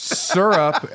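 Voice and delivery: "Syrup" said as SUR-up; real pronunciation. Shown as a demonstration. Co-host arguing for the real pronunciation, "Syrup" as SUR-up. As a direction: say "Syrup" slowly, first syllable rhyming with fur. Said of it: "real pronunciation of it".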